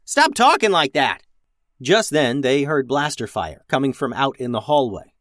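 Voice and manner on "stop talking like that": high, exasperated scolding shout; yell. A narrator's reading. Captain scolds crewman for baby talk, exasperated yell. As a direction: yell to make him stop. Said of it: "yelled Max".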